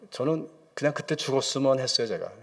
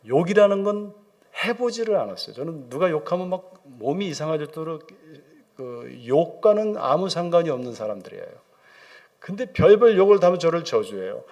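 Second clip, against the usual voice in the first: normal talking voice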